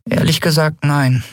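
high little voice, a touch dejected; tiny creature, mildly downcast; weary Nelen. A narrator's reading. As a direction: answer faintly weary in a small high voice. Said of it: "antwortete Nelen matt".

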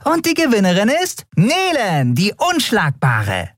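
very high tiny voice, proudly announcing; winged Nelen announcing her own victory; triumphant reveal. Acted. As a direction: lay down the cards in triumph.

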